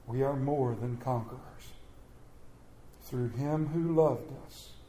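measured, solemn Bible reading with long pauses; preacher reading Romans to the church, solemn and measured; scripture reading. Acted. Reads Romans aloud to congregation.

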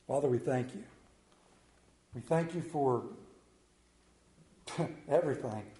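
spoken prayer with searching pauses. Real, not acted. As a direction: pray aloud, phrase by phrase. Leads the congregation in prayer.

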